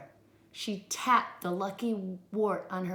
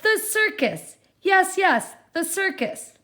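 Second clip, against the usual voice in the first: much higher, loud eager witch; excited witch; 10 semitones higher, 7 dB louder than usual. Acted. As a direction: bounce with glee.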